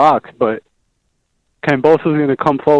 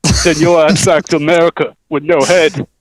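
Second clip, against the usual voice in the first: put-on Australian fighter talk; Australian accent impression. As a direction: taunt a rival in a broad Australian accent. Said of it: "that's a good Australian impression right there".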